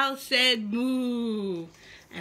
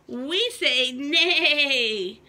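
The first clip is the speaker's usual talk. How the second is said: slow horse voice; 5 dB louder, much slower than usual. Acted. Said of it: "said the horse".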